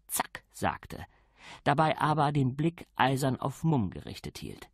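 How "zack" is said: quiet. A narrator's reading. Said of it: "die leise".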